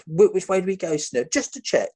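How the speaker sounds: high, anxious mock question to the guide. Tom asking the guide which way, high and anxious.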